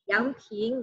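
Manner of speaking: Yangping said with a rising pitch; Yangping in the second, rising tone. Shown as a demonstration. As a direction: let Yangping climb upward.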